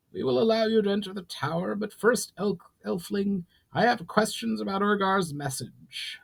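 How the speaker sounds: a proud goblin lord laying down terms; goblin chief Brawl. Acted.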